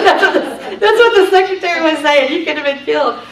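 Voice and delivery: laughing while retelling the warning; high and amused, chuckling through the quote. Real, not acted. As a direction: let the words break with giggles.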